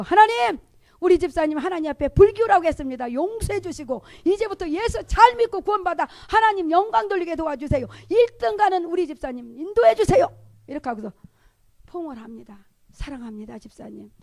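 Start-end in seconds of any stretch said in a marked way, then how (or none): 0.0-10.3 loud, high impassioned prayer; fervent spiritual prayer. Acted. Praying over the deacon while holding both hands, fervent prayer. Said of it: "저는 그 자리에서 영적 기도를 합니다". 12.9-14.1 soft, lowered, affectionate voice; tender reassurance. Acted. Evangelist hugging the deacon after prayer, tender.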